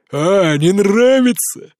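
growled taunt. A narrator's reading. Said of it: "прорычал Дёмин".

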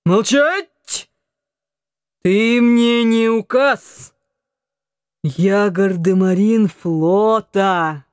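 put-on a tipsy young sailor blustering; drunken rant. A narrator's reading. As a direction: drunk son lording it over his mother. Drunk son rants at mother.

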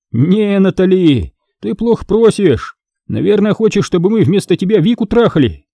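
a hint of a gloating young man. A narrator's reading. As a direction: savour the power over her. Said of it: "Упивался своим могуществом студент".

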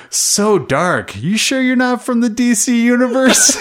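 giggling your way through the punchline; quoting while laughing. Retold or imitated. Host retelling a trailer joke, laughing through it. Quoting Deadpool's line, cracking up.

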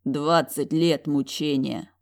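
slow sigh. Acted. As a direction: let it out slowly with pity. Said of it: "выдохнул он".

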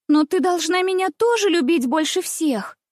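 high, petulant little princess; stamping her foot as she insists; capricious demand. A narrator's reading. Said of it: "топнула ножкой княжна". (капризно, топнув ножкой)

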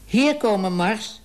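high, loud call across the street; calling a dog. Acted. Man calling his dog Mars to come.

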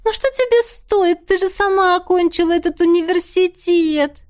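высокое капризное нытьё; выше и громче, канюча; ноет. A narrator's reading. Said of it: "и заныла". (Теа ноет, упрашивая Донну)

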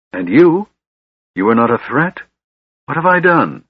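high, distraught questioning; anguished moan. A narrator's reading. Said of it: "he moaned".

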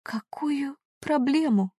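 slow, high, breathless whisper; frozen whisper. A narrator's reading.

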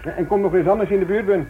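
high, loud farewell call; calling after him. Acted. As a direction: shout a hearty goodbye across the room. Editor calls after departing inspector.

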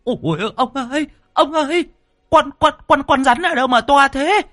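wailing for her husband at the sight of the snake; terrified scream. A narrator's reading. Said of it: "bà kinh hãi gào lên". (kinh hãi gào thét, giọng rất cao)

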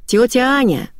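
high, lightly voiced call from the yard; cheerful boy Гена. A narrator's reading. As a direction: call out merrily to a neighbour. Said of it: "весёлый голос Гены". (весёлый оклик со двора)

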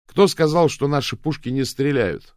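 a thundering challenge to the crowd; booming shout. A narrator's reading. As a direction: bellow it at the whole beach. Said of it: "громогласно прокричал он".

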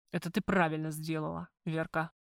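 ниже и тише, с лаской; тихо одобри, обнимая её, на «Верка» мягко вниз. Acted. Макар обнимает её, смягчившись. (Макар тихо и ласково хвалит Верку, обнимая её)

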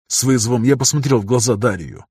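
ordinary delivery, nothing marked

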